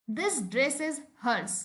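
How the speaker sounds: very slow, each word set apart; slow example sentence. Shown as a demonstration. Teacher reading an example to the class, very slow. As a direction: read it out word by word. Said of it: "तो जब मैं बोल रही हूँ".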